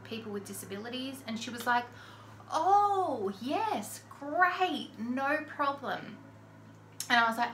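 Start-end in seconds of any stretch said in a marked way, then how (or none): 2.5-6.2 high, bright mock receptionist voice; sing-song mock hostess; chirpy receptionist. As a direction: play the overly cheery badge lady.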